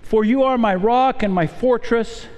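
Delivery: measured, solemn reading of a psalm; steady, prayerful pulpit reading; scripture reading. Acted. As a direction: read the psalm aloud with reverence. Reads psalm aloud to congregation.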